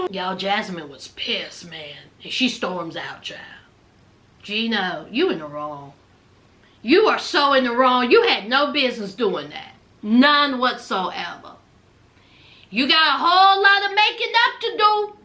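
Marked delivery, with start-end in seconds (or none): 4.4-15.2 stern scolding. Real, not acted. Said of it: "That's all I got to say".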